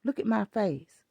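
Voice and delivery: retold furious warning to a child in Walmart; angry scolding. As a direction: lay down the law to a misbehaving kid. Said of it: "I said".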